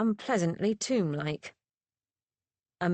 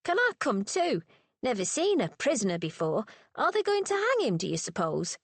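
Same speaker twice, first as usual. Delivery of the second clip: put-on eager boy; 4 semitones higher than usual. Boy voice in story.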